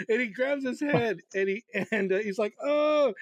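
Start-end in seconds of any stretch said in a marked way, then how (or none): 2.6-3.1 a high, loud yelp of pain; pained cry. Retold or imitated. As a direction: yelp as if you just hit your head. Dan crying out in pain.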